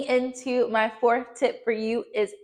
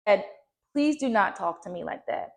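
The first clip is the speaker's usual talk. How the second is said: soft, lower and steady, no edge; calm boundary; 4 semitones lower, 4 dB quieter than usual. Shown as a demonstration. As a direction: set the boundary calmly, without anger. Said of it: "I said it in a calm voice".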